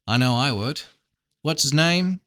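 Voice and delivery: lightly voiced Southern farmer; a touch of amateur Southern; Southern accent. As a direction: offer help with a slight Southern twang. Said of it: "really bad Southern accent".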